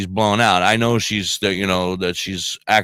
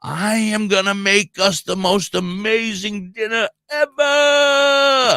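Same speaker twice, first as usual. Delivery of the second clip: higher, slow, grand cooking-show announcement; stoned wife pretending she's on Chopped, higher, slow showbiz voice; TV cooking show host; 11 semitones higher, slower than usual. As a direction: ham it up like a TV chef. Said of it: "she thinks she's on Chopped".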